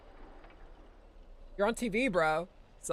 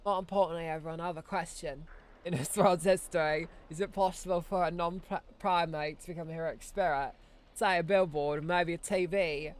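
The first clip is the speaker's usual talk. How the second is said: put-on British accent. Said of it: "that's a British Saber".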